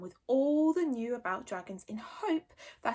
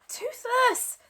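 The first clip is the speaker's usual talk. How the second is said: reasonable; 14 semitones higher, 5 dB louder than usual. Acted. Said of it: "as reasonably as he could".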